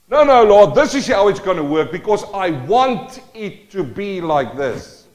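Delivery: loud opening no, no to the Lord; voicing an arrogant believer, loud and insistent; acted defiance. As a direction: argue with God, demanding.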